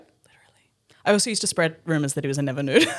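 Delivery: whispered through laughter; laughing whisper. Real, not acted. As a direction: giggle it under your breath.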